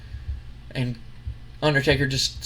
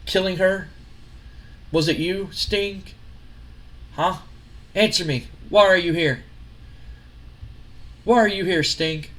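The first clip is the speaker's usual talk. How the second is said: half-acted furious confrontation, pushing higher; retold angry yelling; 5 semitones higher than usual. Wrestling boss yelling at his rival in the ring, mock angry. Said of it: "Vince looks at him and goes".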